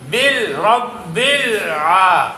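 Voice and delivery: lam of بل held closed before آ; controlled tongue. Shown as a demonstration. Teacher drills pupils on tongue control, lam held firm. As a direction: keep بل clean, no bounce into آ. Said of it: "زبان کو control کرنا ہے".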